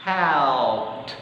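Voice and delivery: "Helped" said as helpt with a soft ending. Shown as a demonstration. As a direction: model "Helped" lightly. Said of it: "pronunciasinya menjadi helped". (contoh pelafalan "Helped")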